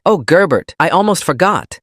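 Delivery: high-pitched, eager remembering; light up as if it just struck you; sudden excitement. A narrator's reading. Mom suddenly remembering over coffee, excited. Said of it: "her eyes bright with excitement".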